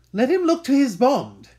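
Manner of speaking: loud, high, bitter warning; vengeful threat. Acted. Scene: Shylock warns that Antonio must honour his bond, loud and vengeful. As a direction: snarl the threat.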